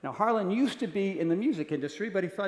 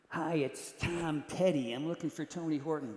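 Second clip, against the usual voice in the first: Tom Petty voice; 5 dB quieter than usual. Retold or imitated. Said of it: "Tom Petty calling the apartment".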